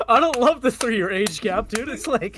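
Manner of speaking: mock moaning. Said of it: "now you make it sound like".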